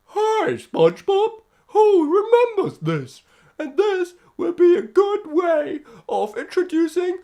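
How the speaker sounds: very high, loud cartoon starfish voice; high, loud, slow Patrick Starfish impression. Shown as a demonstration. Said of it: "the perfect position of imitating Patrick Starfish".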